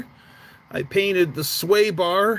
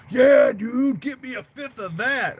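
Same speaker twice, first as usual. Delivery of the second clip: higher, louder eager reply; eager yes; 8 semitones higher, 3 dB louder than usual. Retold or imitated. Buddy jumping at the Everclear offer, eager and higher. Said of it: "would you be interested in that".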